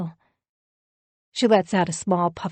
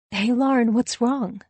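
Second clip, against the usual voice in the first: higher-pitched, caring question; concerned; 5 semitones higher than usual. A narrator's reading. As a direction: check gently on an upset friend. Narrator notices friend's tears.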